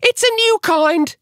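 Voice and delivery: very high, slow squeaky woman's voice; Missus Twit. A narrator's reading. Wife serving her husband dinner, squeaky voice. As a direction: put on a piercingly high character voice. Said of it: "Missus Twit said".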